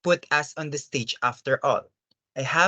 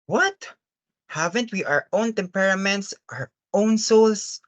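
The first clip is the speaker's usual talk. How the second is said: shocked protest; 5 semitones higher than usual. Acted.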